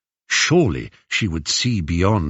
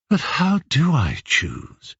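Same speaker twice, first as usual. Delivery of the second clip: slow, higher, mildly helpless question; sighing; 6 semitones higher than usual. Acted. Penelope unable to choose among suitors, sighing. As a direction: ask it with a weary sigh. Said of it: "sighed Penelope".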